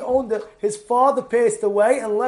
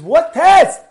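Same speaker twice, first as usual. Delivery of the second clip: incredulous question; 7 semitones higher, 11 dB louder than usual. Retold or imitated. Friends baffled by the answer.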